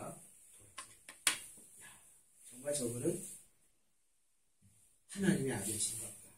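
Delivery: low, hushed realization; quiet confession. Retold or imitated. One robber realizes who Jesus is, hushed confession. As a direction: murmur it low, in halting phrases. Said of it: "라고 고백하면서".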